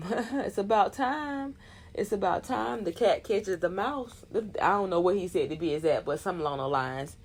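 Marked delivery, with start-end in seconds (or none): 0.1-4.2 1 laughing gloat. Retold or imitated. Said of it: "And then he's like".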